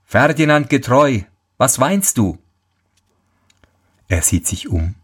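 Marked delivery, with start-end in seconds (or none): 0.0-2.4 calling out. Acted. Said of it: "Plötzlich rief jemand hinter ihm".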